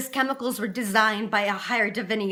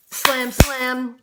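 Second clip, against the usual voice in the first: two hard, punched slams; spoken sound effect, each slam hit; slamming bars sound; 4 dB louder than usual. Acted. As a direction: voice the prison bars banging shut. Voices slamming prison bars.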